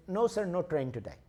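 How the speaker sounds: lightly voiced Indian accent; matter-of-fact refusal with a hint of Indian accent; Indian ticket clerk. Indian clerk turns traveler away, light Indian accent. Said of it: "It's the same guy".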